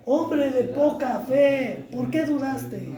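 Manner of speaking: a slow, tender reproach, fading on the question; tender rebuke. Acted. Jesus rebukes Peter, slow and soft.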